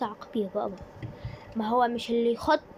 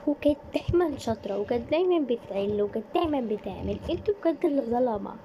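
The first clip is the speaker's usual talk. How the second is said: indignant protest; 3 semitones higher than usual. Acted. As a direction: push back hard for your sister. Student protests defending sister.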